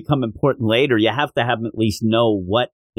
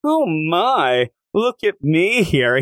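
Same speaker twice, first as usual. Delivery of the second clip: playing up wiles; 4 semitones higher, much slower than usual. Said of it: "Yamcha really playing up his, you know, wiles".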